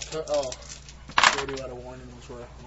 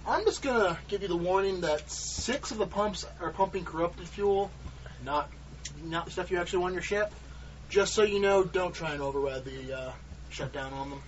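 ship captain radio call; 3 semitones higher than usual. Acted. Captain radios warning to ships.

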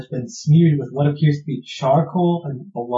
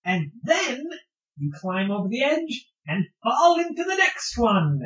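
higher, holding back laughter; suppressed giggles; 9 semitones higher than usual. Real, not acted. Repeated falls told with giggles.

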